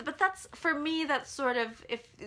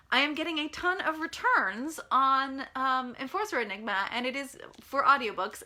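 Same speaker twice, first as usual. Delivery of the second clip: mildly exasperated author venting; understated annoyance, building to a fed-up question; annoyed. Real, not acted. Author venting to listeners about audiobook returns, annoyed. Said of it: "for an annoyed author answer".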